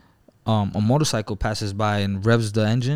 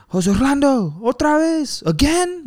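much higher, exasperated wife's cry; scolding wife. Retold or imitated. Wife scolding her husband for taking the horse again, high exasperated cry. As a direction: call out like a fed-up wife. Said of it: "his wife comes out".

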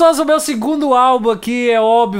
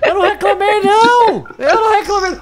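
laughing protest; 12 semitones higher than usual. Real, not acted. Laughing denial of complaining.

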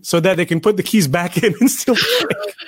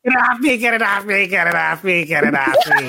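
imitated plea. Viewer mimicking a film character's get-it-off-me cry, imitated plea. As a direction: repeat it over and over, mimicking him. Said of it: "that's literally how he sounds like".

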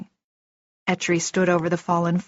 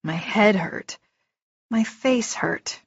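usual speaking voice

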